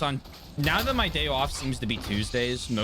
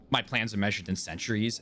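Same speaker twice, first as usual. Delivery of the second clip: vocal stim line; 6 semitones lower, faster than usual. Retold or imitated. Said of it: "was, um".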